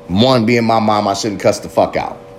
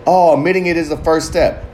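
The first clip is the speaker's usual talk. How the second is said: "Oh, admitting it is the first step" in a raised, singsong mock-preachy voice; higher mock recital of a cliché he's about to debunk; 5 semitones higher than usual. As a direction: parrot the self-help line with a sarcastic lilt.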